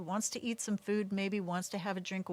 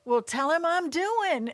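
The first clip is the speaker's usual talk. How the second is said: louder, slow, laughing delivery; laughing quip; 9 semitones higher, 7 dB louder, slower than usual. Retold or imitated. Retelling mother's joke while laughing, louder and slow. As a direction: laugh through the punchline. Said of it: "And she goes".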